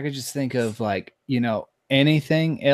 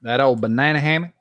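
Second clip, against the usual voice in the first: creepy voice; faster than usual. Acted. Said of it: "Why'd you say that like that? You got that creepy voice?".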